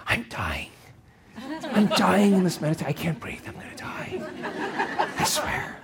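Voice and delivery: half-whispered, hammed-up dying complaint, dropping very soft; mock panic. The body pleads during meditation, mock-panicked whisper. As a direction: fake a melodramatic panic in a whisper.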